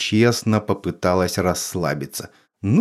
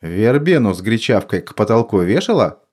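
calm and cold; 2 semitones higher, 3 dB louder than usual. Acted. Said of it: "спокойный и холодный".

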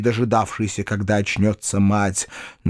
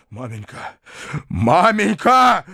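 anguished cry; 7 semitones higher, slower than usual. A narrator's reading. Son crying out in grief to his mother. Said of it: "горестно вскричал дядя".

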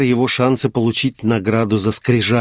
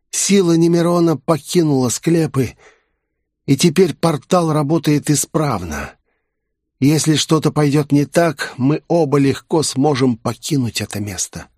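higher, sly snake creature voice; serpent voice; 5 semitones higher than usual. Acted. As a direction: speak as a cunning old serpent. Serpent Nak speaks, higher voice.

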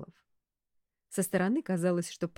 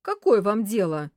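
louder snap; rude retort; 3 semitones higher, 8 dB louder than usual. A narrator's reading. Director rebuffs secretary, rude retort. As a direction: snap back rudely. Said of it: "грубо ответил Барсов".

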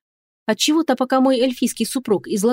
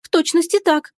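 higher, mock tearful reply; put-on sniffle; 7 semitones higher than usual. A narrator's reading. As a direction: answer with a fake sniffle. Heroine sniffling for effect.

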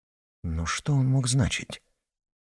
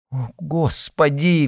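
alarmed cry; 6 semitones higher, slower than usual. A narrator's reading. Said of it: "вскрикнула Татьяна".

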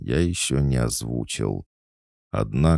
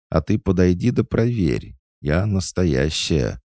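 high, louder, huffy challenge; indignant fox; 8 semitones higher, 4 dB louder than usual. Acted. Fox doll insisting she is real, indignant. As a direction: dare him to check, drawing out the end. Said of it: "возмутилась жуткая лиса".

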